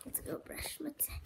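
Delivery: breathy whisper. Real, not acted. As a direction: hush it, barely voiced. Repeats in whisper.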